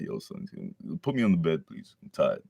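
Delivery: lightly voiced exhausted boy; tired Deku. Exhausted Deku asking for bed, softly and wearily. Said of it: "Deku's just tired".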